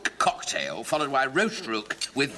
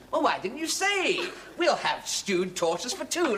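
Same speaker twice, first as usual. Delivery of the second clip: eager order; 6 semitones higher, slower than usual. Acted.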